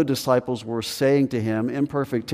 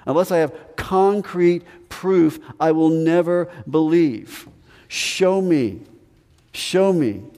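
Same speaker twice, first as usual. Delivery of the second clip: lightly voiced stubborn Thomas, higher, insistent; voicing doubting Thomas; 4 semitones higher than usual. Thomas telling the disciples he needs proof, higher and insistent. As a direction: insist you won't believe without proof.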